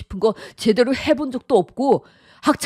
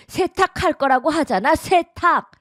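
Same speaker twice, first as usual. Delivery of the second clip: irritated scolding; 6 semitones higher than usual. Acted. Mother-in-law scolds daughter-in-law.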